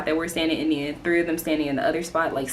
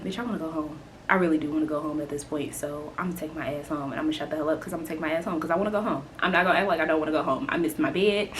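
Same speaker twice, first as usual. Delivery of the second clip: resigned mumble; 4 semitones lower, 7 dB quieter, much faster than usual. Retold or imitated. Resigned inner thought retold.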